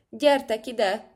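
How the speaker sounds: commanding storybook shout. A narrator's reading. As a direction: call them over with drawn-out words. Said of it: "kiáltotta".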